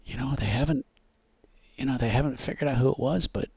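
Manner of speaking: a hint of small-town showman; lightly voiced boisterous visitor. Plays boisterous visitor spreading town rumor.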